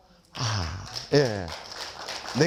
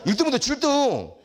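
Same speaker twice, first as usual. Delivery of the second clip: slow, higher and louder through a laugh; laughing punchline; 7 semitones higher, 4 dB louder, slower than usual. Real, not acted. Teacher delivering the punchline to the audience, laughing. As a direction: savour the joke while laughing.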